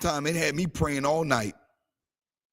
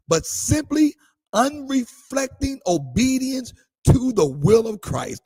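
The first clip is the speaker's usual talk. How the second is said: slow emphatic reading. Real, not acted. Reading Bonhoeffer to congregation.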